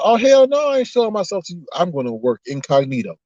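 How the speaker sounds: lightly voiced sassy God, starting high and dropping; playful impression of God putting a foot down; God's retold refusal.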